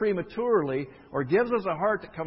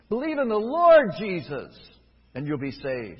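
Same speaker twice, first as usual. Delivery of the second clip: proclaimed verse; 7 dB louder than usual. Acted. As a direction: thunder the verse out to the church. Verse proclaimed at full force.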